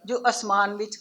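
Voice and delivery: lifted opening, falling line ends; poem recitation. Acted. Poet reciting her poem about girls to an audience, declaimed recitation. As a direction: declaim each line to the room, then pause.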